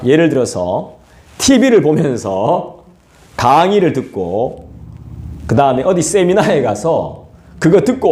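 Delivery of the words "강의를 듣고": usual speaking voice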